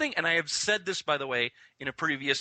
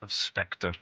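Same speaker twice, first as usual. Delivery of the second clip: Blofeld; 5 semitones lower than usual. Pretend. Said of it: "my name is Ernst Stavro Blofeld".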